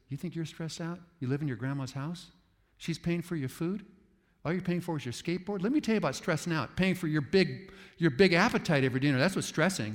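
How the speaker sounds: preacher acting out a dismissive elder; scornful reflex. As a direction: lecture the young one with scorn. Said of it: "our reflex is".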